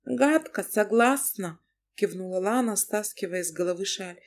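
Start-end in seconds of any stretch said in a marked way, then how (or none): 0.0-1.6 taken aback, she scolds him; wife Lana. Acted. Narrator voices the wife Lana.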